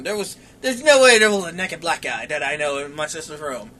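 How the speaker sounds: low, soft muttered denial; muttering. Retold or imitated. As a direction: mutter it to yourself, disbelieving. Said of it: "All I hear is muttering".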